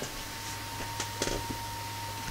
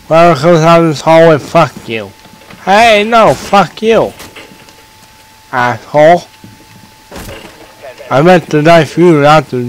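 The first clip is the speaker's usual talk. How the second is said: angry; 4 semitones higher, 3 dB louder than usual. Real, not acted. Yelling at game opponents.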